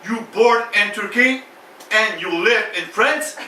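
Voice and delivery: répéter lentement, mot après mot; slow, halting American border officer; douanier américain. Acted. L'agent répète lentement, en anglais. (agent des douanes qui articule lentement)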